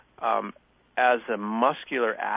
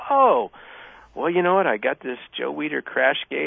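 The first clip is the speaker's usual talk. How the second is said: eager reply; 3 semitones higher, 5 dB louder than usual. Retold or imitated.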